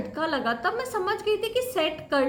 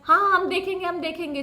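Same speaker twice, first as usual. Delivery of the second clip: dismissive brush-off; 3 dB louder, faster than usual. Retold or imitated. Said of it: "जैसे कि अपना Indian police टालता है".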